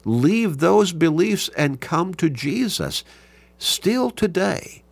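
slow, high-pitched, measured proclamation; emphatic preaching. Real, not acted. Preacher presses the point home.

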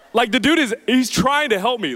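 talking through a laugh. Real, not acted. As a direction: laugh while you say it. Laughing at his own story.

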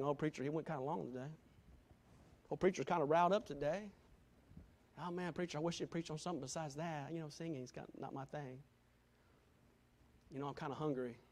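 quiet, fast whiny grumbling; mock pouting churchgoer. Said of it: "start pouting".

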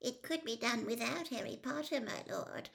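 nervous blurt. A narrator's reading. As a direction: blurt it before your nerve goes. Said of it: "tumbling from him in a rush".

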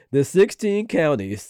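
slow and careful, word by word; slow, deliberate reread. Shown as a demonstration. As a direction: reread it slowly for emphasis. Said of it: "I wanna say this again".

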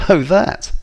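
high, loud scoff of amusement; amused. A narrator's reading. Narrator to knife-wielding man, amused high disbelief. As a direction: toss it off high, as if laughing. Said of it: "I laughed".

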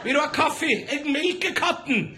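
high, eager hermit offering coffee; wild mountain hermit. Retold or imitated. Hermit offers the reporter coffee, high manic cheer. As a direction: sell it like a host who lost his mind. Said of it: "Han kommer krypende ut av geita si".

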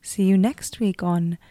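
calm all-knowing narrator voice; goddess voice. Acted. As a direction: speak as a serene cosmic host. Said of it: "I'm the omnipresent goddess voice you've been hearing".

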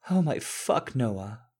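high, loud outburst; startled cry. A narrator's reading. Struck actor crying out his boss's name, high and loud. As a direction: yelp it out as the blow lands.

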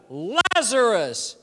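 three words called out slowly, one at a time; mock shout. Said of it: "He shouted".

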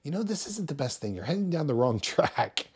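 advising a believer friend, soft and gentle; gentle correction. Shown as a demonstration. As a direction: tell them lovingly and softly. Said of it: "politely, gently, lovingly tell them".

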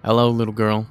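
creepy greeting. Acted. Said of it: "She screams".

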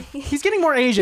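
giggling repeat; laughing. Real, not acted. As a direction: say it again through a laugh.

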